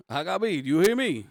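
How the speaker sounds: high, hammed-up Jersey Shore Italian. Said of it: "I went Jersey Shore on your ass".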